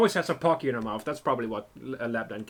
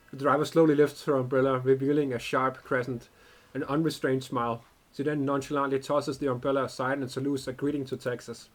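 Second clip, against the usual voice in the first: story narration. A narrator's reading. Streamer narrating the game text to viewers, calm storyteller. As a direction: read the scene text like a storyteller.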